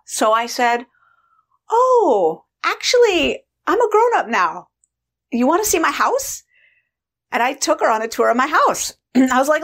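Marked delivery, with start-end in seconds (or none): 1.7-6.4 put-on high, sweet talking-to-a-child voice; gentle explaining. Grown woman updating her younger inner part, gently explaining. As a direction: break it to her sweetly, pitched up.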